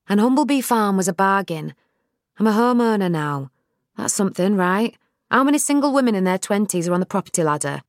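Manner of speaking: bubbling over about her new home; Nell proud and eager. Acted. Nell's voice.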